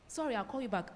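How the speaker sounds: distracted brush-off. Shown as a demonstration. Husband on a call dismissing his sad wife, distracted. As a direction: toss it off while busy on the phone.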